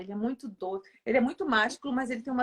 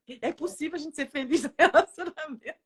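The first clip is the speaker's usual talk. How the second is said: amused question breaking into laughter; retold amazement with a laugh; laughing disbelief; 3 semitones higher, 4 dB louder than usual. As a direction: laugh through the end of it.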